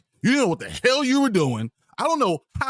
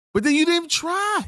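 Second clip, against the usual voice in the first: angry outburst; 11 semitones higher than usual. Real, not acted. Angry rant peak.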